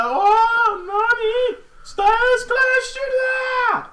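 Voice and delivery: high shouted Japanese commentary; excited commentator. Retold or imitated. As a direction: yell it like a hyped announcer. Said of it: "they said it word for word".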